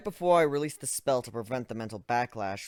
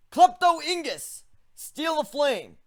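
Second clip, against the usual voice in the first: slow spell incantation; 6 dB louder, slower than usual. Acted. Casting a spell aloud.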